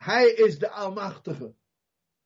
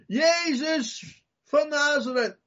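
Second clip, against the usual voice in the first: high, slow drawn-out call; stretched high summons; calling loudly; 9 semitones higher, slower than usual. Retold or imitated. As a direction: cry out the name as loud as you can. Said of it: "Ik roep het net zo hard als dat ik maar kan".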